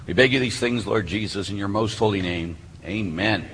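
low, even prayer on a narrow tone; opening prayer. Real, not acted. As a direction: lead the room steadily in prayer.

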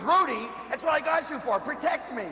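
high-pitched comic plea to a dog; mock yelling. Man yelling at his dog for protection, mock frantic. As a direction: imitate frantic yelling without much volume. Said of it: "I'm yelling at Ruby".

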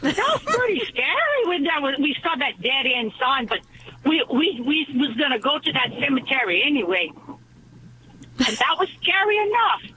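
put-on a light Cajun accent throughout. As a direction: tell it in a gentle Cajun accent. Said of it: "do this joke with a thick Cajun accent".

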